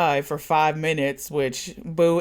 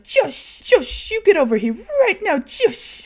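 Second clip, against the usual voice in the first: high, loud fast summons; going off; 5 dB louder than usual. Retold or imitated. Natalie calling Josh over, high loud yelling voice. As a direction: yell for him to come over now. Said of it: "Natalie starts going off".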